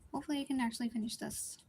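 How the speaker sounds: hiccuping mid-sentence; hiccups. Real, not acted. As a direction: talk through a hiccup.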